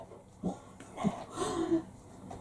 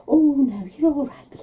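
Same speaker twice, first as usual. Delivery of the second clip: put-on higher voice of an old mum brushing it off; mimicking mum; 8 semitones higher than usual. Mum turns down her daughter's offer, mock brushing off. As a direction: wave the offer away lightly.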